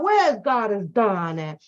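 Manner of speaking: usual speaking voice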